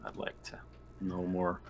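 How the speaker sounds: breathy whisper under the table talk. Real, not acted. Player whispering an aside to the group. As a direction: whisper it to yourself.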